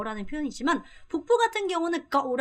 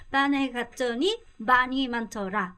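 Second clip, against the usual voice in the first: slow model reading; slower than usual. Shown as a demonstration.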